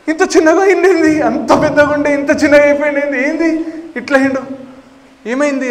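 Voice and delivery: high, loud disbelief; astonished. Acted. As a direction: marvel at how tiny it became. Balarama astonished at the tiny monster.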